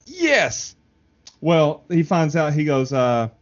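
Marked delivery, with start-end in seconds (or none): 0.0-0.7 mock cheer. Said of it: "Eric's like".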